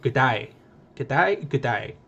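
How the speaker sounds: tentative go at an Australian accent; poor attempt at an Australian accent; attempted Aussie accent. Shown as a demonstration. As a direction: try out an Aussie greeting, unconvincingly. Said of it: "say good day in an Aussie accent".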